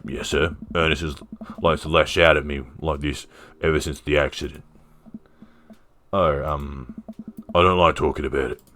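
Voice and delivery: a hint of Australian accent; lightly played Aussie dad; Robert, Aussie accent. Robert explains his son to the officer, light Aussie accent. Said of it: "He was Aussie, right?".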